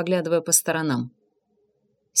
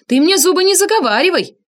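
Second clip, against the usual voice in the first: getting worked up; 10 semitones higher, 5 dB louder than usual. A narrator's reading. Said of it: "завелась Инга".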